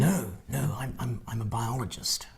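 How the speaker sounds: soft whispered narrator voice; David Attenborough. Pretend. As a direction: hush it like a documentary aside. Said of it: "as David Attenborough".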